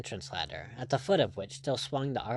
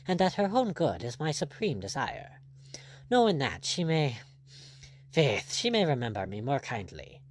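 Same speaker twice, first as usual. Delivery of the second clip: lightly voiced, earnest buccaneer; candid pirate captain. Blood explaining himself to his rival, candid and earnest. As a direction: confess it as a frank pirate.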